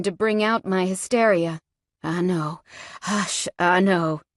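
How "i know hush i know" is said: calm her gently; soothing. Acted. He soothes the injured woman.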